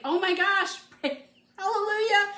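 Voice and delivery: high, loud, joyful exclamation with a laugh; imitating mom's thrilled relief; excited mom. Mom hears she needs no surgery, high joyful cry. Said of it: "And she's like".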